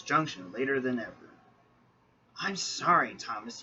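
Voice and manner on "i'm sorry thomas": panting. Acted. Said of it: "he panted".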